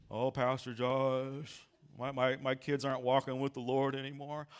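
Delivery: lightly voiced Eeyore complaint. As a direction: drone on in gloom. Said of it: "how Eeyore would talk".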